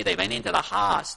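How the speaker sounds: light Pennsylvania Dutch accent on "Haas". Shown as a demonstration. Pastor joking about his preaching accent, light Pennsylvania Dutch accent. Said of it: "I got a Pennsylvania Dutch accent".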